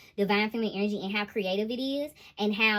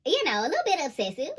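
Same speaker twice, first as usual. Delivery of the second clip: laughing; 7 semitones higher than usual. Real, not acted. Laughing while reading tarot.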